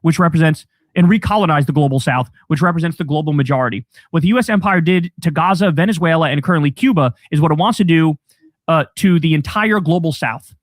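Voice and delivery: a quoted statement read out loud and firm; reading quote aloud. Retold or imitated. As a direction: read it out firmly like a declaration. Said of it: "So Norton says".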